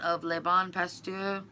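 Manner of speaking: French accent. Shown as a demonstration. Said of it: "My little French accent".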